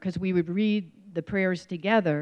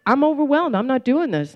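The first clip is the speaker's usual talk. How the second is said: retold crying; 6 semitones higher, 4 dB louder than usual. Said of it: "And I started crying".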